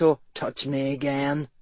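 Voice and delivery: low, menacing growl. A narrator's reading. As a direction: threaten him in a low growl. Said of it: "Ethan growled".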